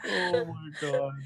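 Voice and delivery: laughing. Real, not acted. Breaking down laughing.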